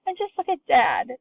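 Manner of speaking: very high, thrilled mother's voice; delighted exclamation. A narrator's reading. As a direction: gush over her young mother. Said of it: "shouted Missus Bucket".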